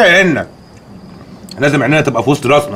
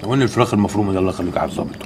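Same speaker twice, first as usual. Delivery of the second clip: faint pleading; 8 semitones lower, 8 dB quieter, faster than usual. Acted. Weak pleading for food.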